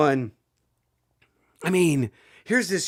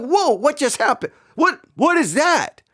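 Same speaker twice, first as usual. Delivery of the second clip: retold astonishment; 7 semitones higher than usual. Retells shock at the second punch.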